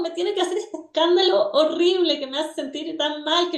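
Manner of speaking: a touch of pleading bewilderment; exasperated mother. Acted. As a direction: voice a mother's frustrated inner questions, lightly acted. Acting a frustrated mother's inner questions.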